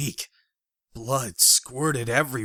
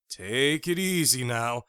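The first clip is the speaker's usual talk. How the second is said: alarmed. Acted. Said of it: "I said in alarm".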